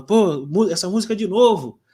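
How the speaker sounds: complaining wife. Retold or imitated. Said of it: "minha esposa reclama".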